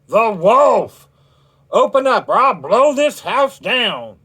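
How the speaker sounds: high, loud, menacing shout; wolf's threat. A narrator's reading. Wolf threatens the pigs, loud menacing shout. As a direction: roar the threat at the brick house.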